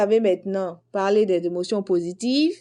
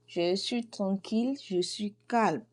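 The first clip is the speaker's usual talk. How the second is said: soft, calm and settled, softer; 5 dB quieter than usual. Shown as a demonstration. Teacher showing students how calm sounds, softly. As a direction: let it settle softly, at ease.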